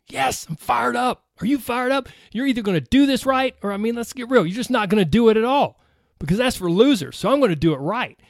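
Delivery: pumped-up self-help guru voice; motivational hype. Pretend. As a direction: sell it like a fired-up coach. Mock motivational hype speech.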